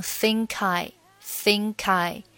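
"think I" with the k running into "I"; linked think I. Shown as a demonstration. Teacher linking "think I" for students. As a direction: roll the k of "think" into "I". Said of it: "你也可以选择连读成think I".

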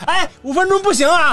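high laughing protest; mock protest. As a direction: squeal it out, laughing. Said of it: "然后你开门说".

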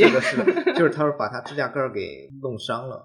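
high, loud laughing agreement. Real, not acted. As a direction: laugh through the words.

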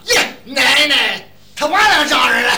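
loud, high, slow Xuzhou dialect call; Xuzhou accent. Retold or imitated. 相声演员学徐州话，拖长高喊. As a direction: drag out the Xuzhou greeting at full voice. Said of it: "徐州话最好听".

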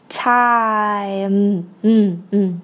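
TIME drawn out, lips closed on a hummed m; nasal ending. Shown as a demonstration. Teacher shows the closed-mouth ending, nasal sound. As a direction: hum the final m of TIME. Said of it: "发鼻音".

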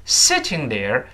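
"sitting" stressed and drawn out, "there" glided over. Shown as a demonstration. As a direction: lean slowly on "sitting", let "there" drop. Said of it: "这个sitting要重读，there带过去了".

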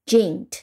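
"gent" said with a j sound; soft-g syllable. Shown as a demonstration. Teacher blending G with E N T, "gent" as "jent". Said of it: "放在一起读成gent".

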